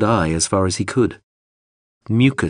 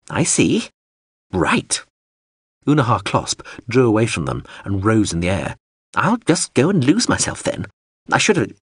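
huffy drone. Acted. Drone huffily leaves.

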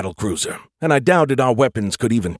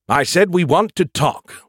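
slow, higher, pressing repeat; insistent repeat; 7 semitones higher than usual. A narrator's reading. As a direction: say it again, more insistently. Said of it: "He tried again".

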